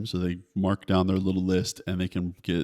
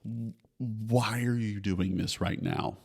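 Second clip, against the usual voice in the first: exasperated parent; 3 semitones higher, slower than usual. Retold or imitated. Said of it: "it's so easy to just be like".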